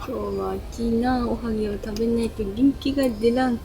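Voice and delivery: Miyazaki dialect. Pretend. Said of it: "宮崎弁と関西弁混じりました".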